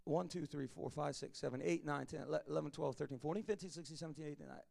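soft, murmured counting of stars; counting under breath. Shown as a demonstration. Preacher to church, counting stars softly under his breath. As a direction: count the stars quietly to yourself.

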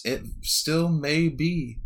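slow ominous reply; a hint of a cryptic oracle, slow. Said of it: "she says".

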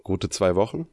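congested, blocked-nose voice; stuffy nose. Real, not acted. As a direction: speak with sinuses swollen shut. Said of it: "du klingst noch ein bisschen verrotzt".

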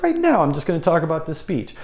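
starts high, settles down; high-pitched demo. Shown as a demonstration. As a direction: open way up high to break the pattern. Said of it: "by talking really high".

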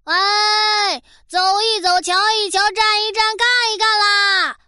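sing-song market barker calling; street hawker call. Pretend.

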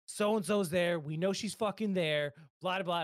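half-hearted imitation of angry callers shouting; mock yelling. Angry callers on the phone, mild mock yell. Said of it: "they're just yelling at me".

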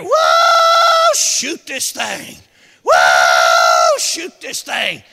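slow, loud, desperate cry; John pleading with the men below, hollering; hollering for help. Retold or imitated. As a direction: beg them to shoot, stretching each word. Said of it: "he started hollering down there".

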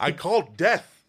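slow, put-on voice of doom; scary death voice. Voice actor imagining a caller reaching Death, scary voice. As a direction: draw it out like Death answering. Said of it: "not scare the living shit out".

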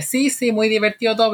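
imitated husband. Husband's complaint voiced in story.

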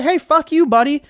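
high, loud mock shout of hey fuck you buddy; mock comeback shout. Telling off someone who called you retarded, a mock shout. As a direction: fire back at the insulter, half yelling.

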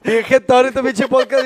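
high, slow, drowsy mock complaint; lazy sleepy quote; sleepy mock drawl. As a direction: say it like you're half asleep.

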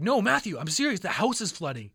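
loud on "No, Matthew", then firm; acting out a serious appeal; urgent insistence. Urgent plea to disbelieving brother.

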